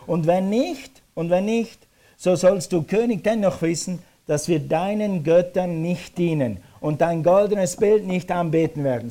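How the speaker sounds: bold, ringing refusal; defiant declaration. Acted. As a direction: declare it firmly to a king. Acting the men defying the king.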